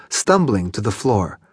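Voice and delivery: ordinary delivery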